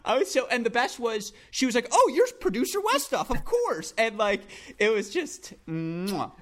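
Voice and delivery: can't stop laughing mid-story. Real, not acted. Telling the Westhoff mix-up, giggling through it.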